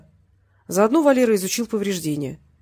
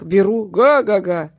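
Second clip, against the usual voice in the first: slow, louder guffaw; joking laugh; 6 dB louder, slower than usual. A narrator's reading. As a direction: laugh at your own joke. Jokes about buying the house.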